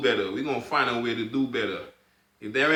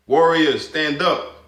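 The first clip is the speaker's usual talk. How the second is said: a loud rousing call to the warriors; punchy loud shout-out to the crowd; rallying call; 5 dB louder, much slower than usual. Real, not acted. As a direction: call your people to stand up.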